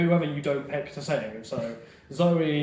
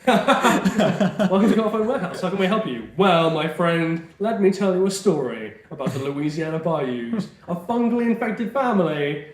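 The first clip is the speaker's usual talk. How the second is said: shop clerk; 2 semitones higher, 3 dB louder than usual. Pretend. Acted phone shop dialogue.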